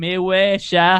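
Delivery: put-on drunk Louisiana accent. Retelling a drunk friend lying on the floor: imitating a drunk friend's cajun accent. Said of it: "his Cajun ass keeps going".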